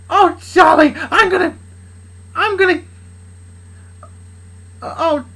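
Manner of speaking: high, hammed-up seductive cries. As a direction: put on a loud, high come-on. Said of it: "she said in a seductive way".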